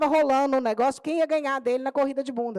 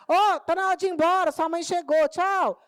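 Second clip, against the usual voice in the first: higher, breezy goodbye; breezy send-off; 5 semitones higher than usual. Retold or imitated. Teacher dismissing the boy at three, breezy. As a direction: toss it off casually, as if he barely matters. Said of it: "deu três horas".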